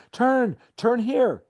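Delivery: high, loud, slow frantic yell; urgent shouted order to the driver; scream. Retold or imitated. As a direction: scream the turn at him in panic. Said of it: "find our voices and scream".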